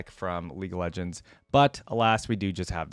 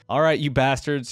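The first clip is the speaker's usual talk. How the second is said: louder, a gunslinger roaring; 2 semitones higher, 5 dB louder than usual. Acted. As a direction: bellow at the men outside. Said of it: "he roared".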